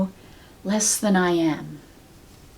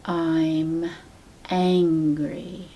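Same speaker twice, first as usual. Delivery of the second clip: very slowly; 2 semitones lower, much slower than usual. Shown as a demonstration. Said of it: "say that very slowly, three times".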